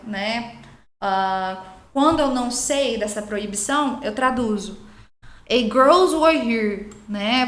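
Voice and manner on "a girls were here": slow, deliberate wrong sentence; teacher slowly models the wrong version, drawn out; slow wrong example. Shown as a demonstration. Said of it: "Se eu quiser traduzir ao pé da letra".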